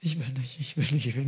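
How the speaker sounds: soft, reluctant repeated plea; acted reluctance. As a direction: plead under your breath not to do this. Acted reluctant prayer at the counter.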